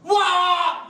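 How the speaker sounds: high, loud drawn-out cheer; cheering shout. Retold or imitated. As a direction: shout for joy. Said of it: "권사님들이".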